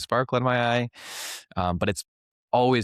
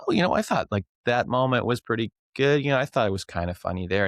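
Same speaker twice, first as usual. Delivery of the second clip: higher, meek hedging self-imitation; timid younger self; 3 semitones higher than usual. Recalling answering his teacher, a higher meek voice. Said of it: "And I'd be like".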